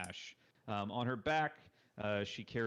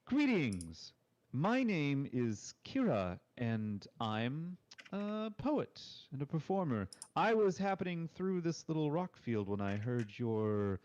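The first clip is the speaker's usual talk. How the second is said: cheerful bard; 4 semitones higher, 4 dB louder than usual. Acted. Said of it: "she sort of bows gracefully".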